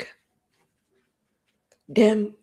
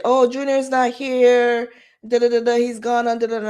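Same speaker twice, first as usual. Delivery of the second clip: imitating the sister; 5 semitones higher, 6 dB louder than usual. Boyfriend's sister voiced.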